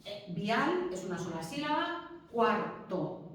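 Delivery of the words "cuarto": cuarto in two beats, cuar and to; cuarto split in syllables. Shown as a demonstration. Teacher counting syllables for class, cuarto split in two. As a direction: keep cuar whole, then a break. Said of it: "dos sílabas".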